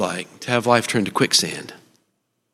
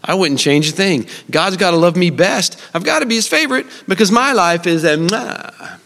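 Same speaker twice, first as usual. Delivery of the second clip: smug listener. Retold or imitated. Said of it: "Maybe you're thinking to yourself".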